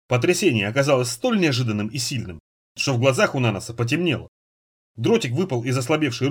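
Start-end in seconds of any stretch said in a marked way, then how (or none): none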